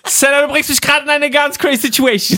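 high, laughing through the words; flustered, laughing it out. Real, not acted. Laughing while flustered by questions.

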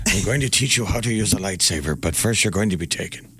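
Liam Neeson. Acted. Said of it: "I guess Liam Neeson".

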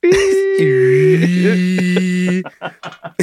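long, high sustained whine; microwave hum imitation. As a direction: drone like a running microwave.

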